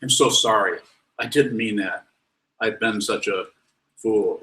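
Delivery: mock gushing, over-the-top sorry; a mock overdone apology, hammed-up and gushing. Shown as a demonstration. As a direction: lay the apology on thick, self-pitying. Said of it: "Instead of".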